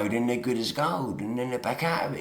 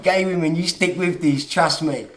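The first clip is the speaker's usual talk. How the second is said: urgent appeal; 5 semitones higher, 7 dB louder than usual. Real, not acted. Urging women to persevere.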